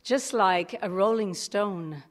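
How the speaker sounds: a poem read out with punchy stresses. Acted. Reading his friends' punk poem aloud to the room, recited. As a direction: recite the punk poem, lines hit one by one. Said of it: "So the poem goes like this".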